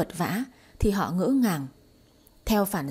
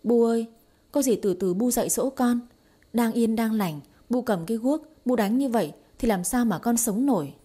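a touch of put-on sobbing, pleading; mildly hammed-up tearful plea; fake wailing plea; 3 semitones higher than usual. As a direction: whine to mother-in-law like a wronged girl. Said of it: "khóc um lên".

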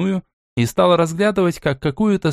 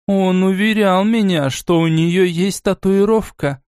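slow, musing recollection; a grandmother thinking back, slowly; thoughtful; 6 semitones higher, slower than usual. Acted. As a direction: remember aloud, slowly and pensively. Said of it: "задумчиво добавила она".

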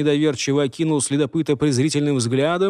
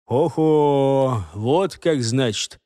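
intrigued; much slower than usual. Acted. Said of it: "с интересом промолвил следопыт".

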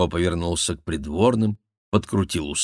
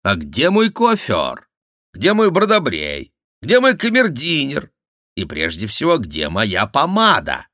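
mock fussy courtier; 8 semitones higher, 7 dB louder than usual. Jester mocking the king.

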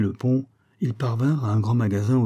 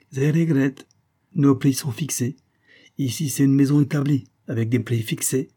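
higher, formal Italian shopkeeper; stiff Italian accent; 6 semitones higher, 4 dB louder than usual. A narrator's reading. Shopkeeper refusing to haggle with customer, stiff Italian accent. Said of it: "l'italien s'inclina avec une certaine raideur".

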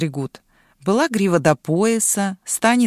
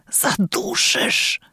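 strangled, high, very slow rasp; wheezing; 11 semitones higher, much slower than usual. A narrator's reading. Boy being strangled by a dragon's tail, wheezing. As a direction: squeeze it out while being choked. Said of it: "прохрипел Бозо синее".

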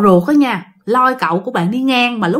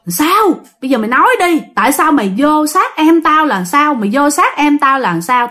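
acted cross aunt, pitch raised; mildly angry, higher-pitched demand; scolding interrogation; 4 semitones higher than usual. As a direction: press for an answer, scolding. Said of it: "hai người dì mới ngưng chửi".

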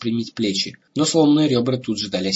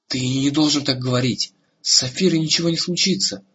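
anxious protest; alarmed; 4 semitones higher than usual. Acted. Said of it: "с неожиданной для него самого тревогой". (с тревогой)

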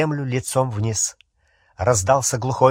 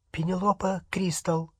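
frightened but sincere; 7 semitones higher, 6 dB quieter than usual. Acted. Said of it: "звучал испуганно, но очень искренне".

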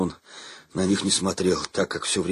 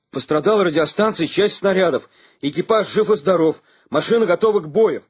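higher, louder, clear military report; crisp report; 9 semitones higher, 5 dB louder than usual. A narrator's reading. Lieutenant finishing his report to the colonel, crisp and loud. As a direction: rap out each fact at attention. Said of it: "чётко доложил Саня".

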